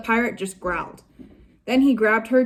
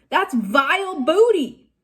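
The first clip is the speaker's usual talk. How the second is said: disgusted pirate; 6 semitones higher, 4 dB louder than usual. Acted.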